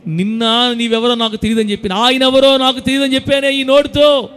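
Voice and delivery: acted weeping lament. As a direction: cry out in acted remorse, climbing in pitch. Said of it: "అని ఏడుపు". (పేతురు ఏడుపును అభినయిస్తూ పెరిగే పశ్చాత్తాప స్వరం)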